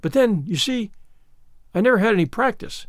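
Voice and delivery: a touch of earnest excuse; apologetic. Acted. Anne pleads lack of practice at praying, apologetic. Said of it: "said Anne apologetically".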